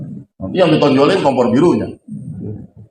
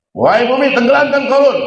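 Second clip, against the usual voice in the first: commanding shout; 13 semitones higher than usual. Acted. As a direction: order the ground to swallow him. Musa commands the earth. (perintah lantang kepada bumi)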